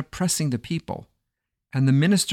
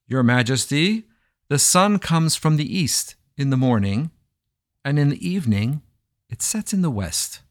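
air of importance; 3 semitones higher than usual. Acted. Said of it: "put on an air of importance, and he pronounced".

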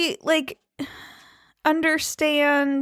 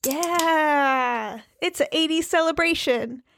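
radio DJ voice. Pretend. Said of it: "Do I sound like a radio D J yet?".

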